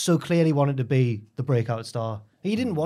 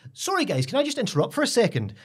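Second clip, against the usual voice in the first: higher, pleading voice of the worried lad; mimicking the flustered contestant; 6 semitones higher than usual. Contestant defending himself at the table, higher and pleading. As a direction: play the innocent contestant protesting his case. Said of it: "And he goes".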